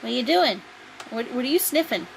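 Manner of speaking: high, playful questioning; sing-song voice for an animal; pet talk. Real, not acted. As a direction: quiz a sniffing pet in a cooing lilt.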